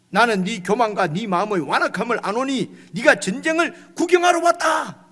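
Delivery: put-on older brother accusing David of pride, ending in a shout; angry rebuke. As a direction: start firm, then shout the last words. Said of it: "이 형님이 너무 화가 났어요".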